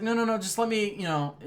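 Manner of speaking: retold protest. Student trying to explain to teacher, high retold protest.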